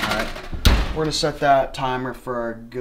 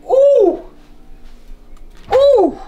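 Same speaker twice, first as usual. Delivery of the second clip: excited ooh; 7 dB louder than usual. Real, not acted. Reacting to hot fish.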